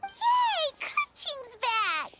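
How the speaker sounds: excited cheer. Acted. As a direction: burst out with joy. Paimon cheers at Keqing's return.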